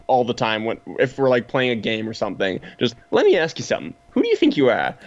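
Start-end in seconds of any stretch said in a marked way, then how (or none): 3.1-4.9 put-on comical Boston accent, as friends quote it; playful Boston accent, a hammed-up challenge. Friends quoting the line during games, in a comical Boston accent. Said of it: "comical Boston accent".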